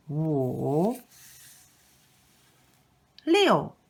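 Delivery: each number slow and clearly toned for repeating; counting with tones. Shown as a demonstration. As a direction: count one to ten, tones exaggerated for the learner. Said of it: "repeat after me".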